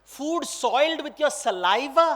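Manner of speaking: indignant, disgusted question; very upset. Acted. Lakshman scolding the lady over bitten food, disgusted. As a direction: throw it back as an offended question. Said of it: "He's very upset and he's saying".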